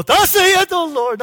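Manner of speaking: high, loud, drawn-out proclamation; mock posturing. Preacher showing what Jesus did not do, grandly posturing. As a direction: overblown prophetic pronouncement, stretched out grandly. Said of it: "No posturing".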